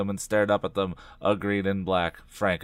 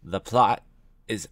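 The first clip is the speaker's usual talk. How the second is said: coldly final, with weighty pauses; measured, cold pronouncement. A narrator's reading. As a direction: deliver it like an icy verdict. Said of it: "Brenda said coldly".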